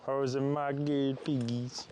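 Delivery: slow cooing to pigs; pet talk. Real, not acted. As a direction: coo at the piggies. Greeting pigs.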